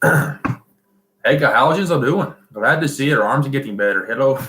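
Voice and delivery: amateur attempt at a Scottish accent. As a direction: read it out in a shaky-footed mock Scottish. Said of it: "message here in Scottish accent".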